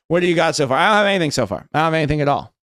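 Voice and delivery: ordinary delivery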